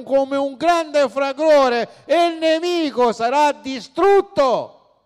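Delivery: loud and high, slowing onto distrutto; full-force preaching. Acted. Preacher proclaiming the enemy's defeat to the church, loud and fervent. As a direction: thunder it from the pulpit.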